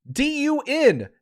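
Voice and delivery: d, u, n, each letter separate; spelled out slowly. Shown as a demonstration. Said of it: "that's not how you spell it".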